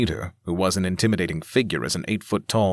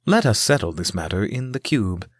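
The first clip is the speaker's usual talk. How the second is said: even, machine-like AI voice; robot voice. Acted. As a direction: speak like generated speech. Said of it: "his robotic voice sounding like A I generated speech".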